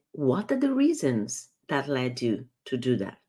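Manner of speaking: calm, open asking; curious question. Shown as a demonstration. Coach repeating the better what question, curious. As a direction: ask to understand, not to blame. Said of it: "It sounds much better".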